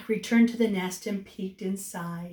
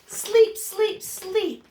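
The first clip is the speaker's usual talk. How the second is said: tired babies; 9 semitones higher, 4 dB louder, much slower than usual. Acted. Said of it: "the tired babies finally whispered".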